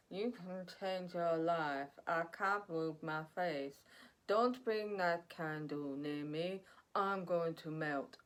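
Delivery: a lightly voiced eerie spirit, slow and stiff; weird malicious spirit. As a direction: channel a creepy spirit from beyond, drawn out. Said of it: "what kind of accent or voice that was".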